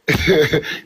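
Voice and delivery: laughing. Real, not acted. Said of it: "and let 'em hear".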